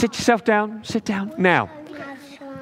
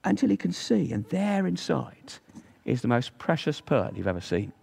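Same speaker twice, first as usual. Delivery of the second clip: story narration. Acted. Telling children about the pearl diver, storybook narration. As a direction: read it like a bedtime tale for little ones.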